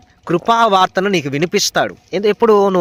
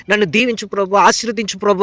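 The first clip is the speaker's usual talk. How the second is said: modelled prayer; 2 semitones higher than usual. Shown as a demonstration. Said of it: "అని దేవుణ్ణి అడుగు".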